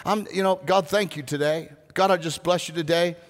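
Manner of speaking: a hint of an easygoing, chatty prayer; casual prayer. Shown as a demonstration. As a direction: talk to God like a friend.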